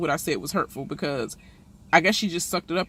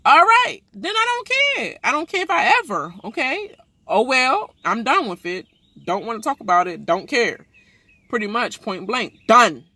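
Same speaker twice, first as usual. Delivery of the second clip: much higher, louder brushing-off voice; mock dismissive castmate; 6 semitones higher, 6 dB louder than usual. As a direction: play her waving it all away. Mocking Jackie dismissing apology.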